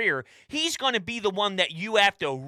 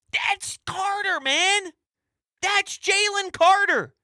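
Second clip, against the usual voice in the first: excited rave; 10 semitones higher, slower than usual. Real, not acted. Host raves about his pick.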